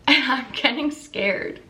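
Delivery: scared, laughing slowly; nervous laugh. Real, not acted. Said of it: "Classic me smiling when I'm scared".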